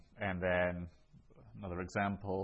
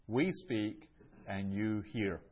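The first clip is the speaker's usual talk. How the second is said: slow translation leaning on "We" and "you"; emphatic pronouns; slower than usual. Shown as a demonstration. Teacher translates the Greek example for students, slow and emphatic. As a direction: stress "We", pause, then stress "you". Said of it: "it makes it emphatic".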